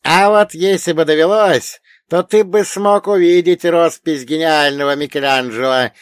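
high, loud elder quizzing a pupil; old storyteller pitched high and forceful; wise old dead man. Acted. Old man tells of Lilith.

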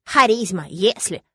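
sarcastic mock of his words; mock the old man's condition. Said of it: "мысленно ёрничал Рыжий".

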